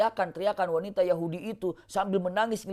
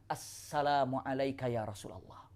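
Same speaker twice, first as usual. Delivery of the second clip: "Assalamu alayka ya Rasulullah" said much softer, gently, with a falling end; a hushed, respectful greeting to the Prophet; 5 semitones lower, 10 dB quieter than usual. Acted. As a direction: greet him quietly and humbly. Sofia greeting the Prophet softly.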